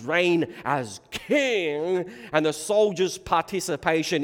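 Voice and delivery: ringing, emphatic proclamation from the pulpit; impassioned preaching. Acted. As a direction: preach it out at full force. Preaches at full force.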